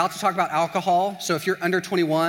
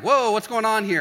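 loud, high startled question; mock alarm at the pushiness; taken aback; 6 semitones higher, 6 dB louder than usual. Coffee companion reacting to aggression, alarmed. Acted reaction to pushy friend.

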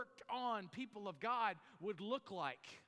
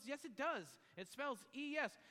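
higher-pitched, insistent mock exasperation; mildly frustrated; 7 semitones higher than usual. Father contradicting his tricking daughter, mock frustrated. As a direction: imitate a dad digging in, higher. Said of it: "this man becomes increasingly frustrated with his daughter".

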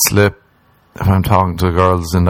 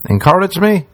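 mock disdain; 11 semitones higher than usual. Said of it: "I like when I get that mocking motivation".

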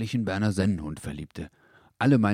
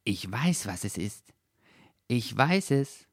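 excited; 4 semitones higher than usual. A narrator's reading. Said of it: "freute sich der Dackel plötzlich".

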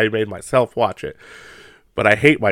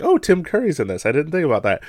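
retold excitement; 5 semitones higher, faster than usual. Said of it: "I was actually excited".

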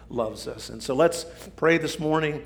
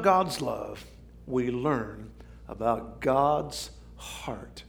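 measured quotation. Retold or imitated. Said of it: "he got it right when he said this".

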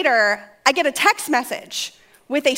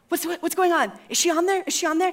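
put-on higher, puzzled kid voices; confused prank callers; 5 semitones higher, faster than usual. Teenagers wondering if lady is listening, high and puzzled. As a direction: ask around in a higher voice.

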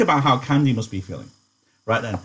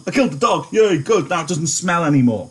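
mock Carlson; 4 semitones higher than usual. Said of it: "As far as he's concerned".

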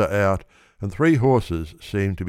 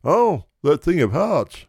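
other racegoer; 9 semitones higher, 4 dB louder than usual. A narrator's reading. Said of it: "says someone else".

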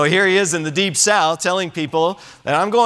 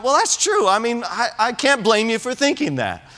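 mock agreeing; 6 semitones higher than usual. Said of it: "here we are going".

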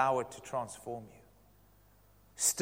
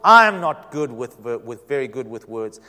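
loud, halting plea to the Lord; pleading; 9 dB louder than usual. Acted. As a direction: plead insistently, stumbling over the words. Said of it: "Moses pleaded with the Lord".

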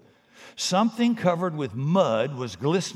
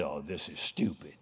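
low, quiet grumble under the breath; dismissive, half under the breath; muttered aside; 10 semitones lower, 7 dB quieter than usual. Pretend. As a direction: mutter it while turning away. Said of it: "turn and look the other way and say".

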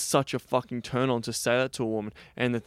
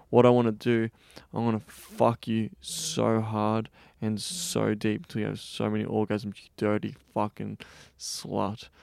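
slowly and meant. Retold or imitated. Retelling a student told to say it slowly to the model, slow and deliberate. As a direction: drag each word out and mean it. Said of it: "I want you to say it slowly and mean it".

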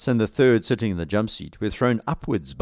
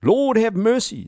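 loud, high, drawn-out plea; acted panicked scream; 6 dB louder than usual. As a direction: cry out desperately as the pilot. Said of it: "screamed Asker".

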